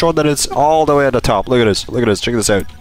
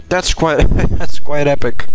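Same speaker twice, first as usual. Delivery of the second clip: laughing; 5 dB louder than usual. Real, not acted. Laughing over loot find.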